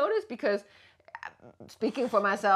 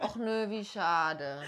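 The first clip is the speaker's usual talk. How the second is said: disappointed och no; 4 dB quieter, much slower than usual. Shown as a demonstration. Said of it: "example of disappointment".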